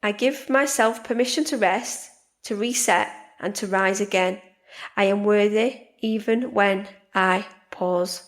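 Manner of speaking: calm repeated affirmation. Shown as a demonstration. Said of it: "So I'll do that again".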